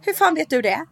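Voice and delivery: snappy retort. Retold or imitated. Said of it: "Jag bara".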